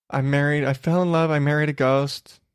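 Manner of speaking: lightly put-on Irish accent; mock Irish accent. Podcaster mimicking the woman who married a ghost, mock Irish accent. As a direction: play the ghost's bride with a hazy Irish lilt. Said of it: "I don't know why I'm doing that voice, 'cause she's Irish".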